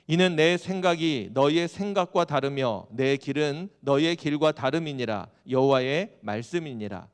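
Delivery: loud, declaimed prophetic verse; scripture reading. Acted. Preacher reading Isaiah to the congregation, loud scripture proclamation. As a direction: read it out firmly and loudly to the congregation.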